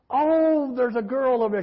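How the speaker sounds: high-pitched, scandalized complaint; mock outrage, starting high and coming down; retold indignation. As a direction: imitate an angry churchgoer pointing out an offender. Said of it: "a lady who got mad at me".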